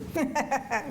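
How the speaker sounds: short amused laugh at a proposal; a quick, surprised little laugh; laughing off his offer. Acted. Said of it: "You laugh".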